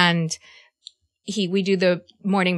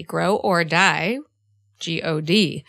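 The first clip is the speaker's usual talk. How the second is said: slow and weighty; 2 semitones lower, much slower than usual. Shown as a demonstration. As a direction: Grow or die, stretched out slowly with weight. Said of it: "I didn't say that lightly".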